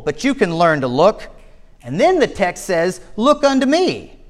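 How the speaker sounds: lightly voiced simple country preacher, pitch jumping up on key words; hint of a folksy, earnest lay preacher; rustic preacher. Untrained stand-in preacher addressing the tiny congregation, lightly folksy. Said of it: "The preacher began".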